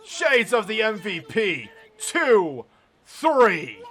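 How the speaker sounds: high, drawn-out shouted move name and count; excited finish call. Real, not acted. Commentator calling the winning pinfall, excited shout. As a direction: shout the knockout finish slowly, falling off each call.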